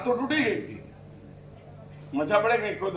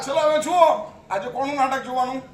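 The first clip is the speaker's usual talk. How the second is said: 1 gleeful mock excitement; 4 semitones higher, 4 dB louder than usual. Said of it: "એ આપણે એમ મજા આવે".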